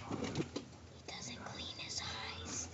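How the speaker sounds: slow, low breathy whisper. Acted. Kid whispering a joke to viewers, slow whisper. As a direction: drop to a secret whisper, slowly.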